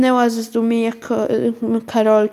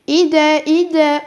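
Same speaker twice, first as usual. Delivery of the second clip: higher, louder quick reply; shouted back; 5 semitones higher, 5 dB louder than usual. Acted. Karolcia answers her mother's call, shouting back. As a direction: call back through the door. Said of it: "odkrzyknęła Karolcia".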